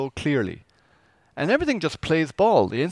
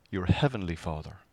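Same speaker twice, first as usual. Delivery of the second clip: tender; 6 semitones lower, 5 dB quieter than usual. Shown as a demonstration. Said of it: "A very intimate, caring, loving way".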